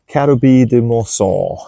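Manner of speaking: "Carobi de Morson" tried in a light French accent; a hopeful stab at a French accent; "Carobi de Morson" said with a slight French lilt; best French accent. Shown as a demonstration. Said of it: "My best French accent".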